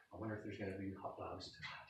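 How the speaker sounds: very soft, quick musing; mock wondering. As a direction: toss it off softly. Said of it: "I never wondered".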